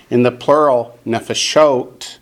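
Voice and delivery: nefeshot with the accent on SHOT, nefe-SHOT; stress on last syllable. Shown as a demonstration. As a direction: put the weight at the end of nefeshot. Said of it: "the accent switches to the last syllable".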